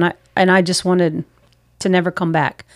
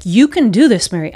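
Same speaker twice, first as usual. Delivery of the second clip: self pep talk; 2 semitones higher, 3 dB louder than usual. Retold or imitated. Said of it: "talked my way through it".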